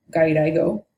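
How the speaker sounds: gairaigo said in Japanese, gah-ee-rah-ee-go; even Japanese syllables on gairaigo; Japanese pronunciation. Shown as a demonstration. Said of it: "Japanese actually has a term".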